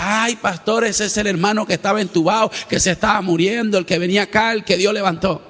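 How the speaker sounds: a hint of the excited sister breaking the news; mild imitation of an excited church sister; sister's excited report. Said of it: "Me dice".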